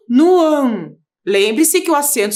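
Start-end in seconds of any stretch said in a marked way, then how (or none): 0.1-1.0 "ão" said on its own and emphasised; syllable named. Shown as a demonstration. Teacher marking the tonic syllable for the class, emphatic. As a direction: hit the syllable "ão" clearly. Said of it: "Palavra ângulo".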